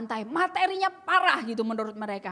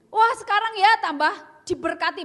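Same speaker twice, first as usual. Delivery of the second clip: sarcastic praise; 7 semitones higher, 7 dB louder than usual. Retold or imitated. Sarcastic mock compliment.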